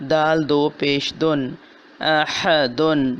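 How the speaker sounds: measured letter-by-letter recitation, words joined at the end; Quran spelling drill. Shown as a demonstration. Teacher reading practice words aloud for students. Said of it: "الفاظ آپ کے سامنے پڑھتی ہوں".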